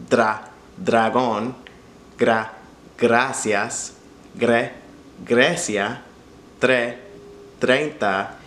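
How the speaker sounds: dragón, gracias, Grecia, treinta, each syllable first said alone, r tapped; dra-, gra-, gre-, tre- then the whole word, slow and careful; rolled r. Shown as a demonstration. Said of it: "practice some other prefixes".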